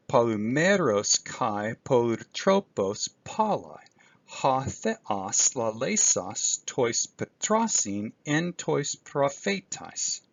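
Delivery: slow careful Greek reading; reading Greek aloud. Shown as a demonstration. Teacher reading Hebrews verse one to students, slowly. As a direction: read the verse slowly, word by word. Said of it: "just an example here from verse one".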